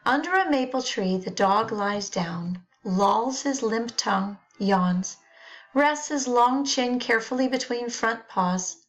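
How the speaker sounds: light recitation of "the dog lies down, lolls his limp tongue"; poem reading. Acted. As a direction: read it lazily, like the dog.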